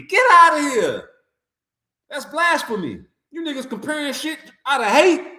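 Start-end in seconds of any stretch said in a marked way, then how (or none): 0.0-1.1 loud, higher dismissive yell; outraged shout. Real, not acted. Vlogger rejecting the Ali comparison with a loud outraged yell. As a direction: shout it off as nonsense.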